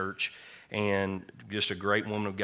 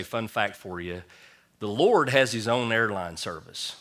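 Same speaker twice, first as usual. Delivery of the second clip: slow punchline delivery; 4 dB louder than usual. Shown as a demonstration. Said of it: "I'd just say".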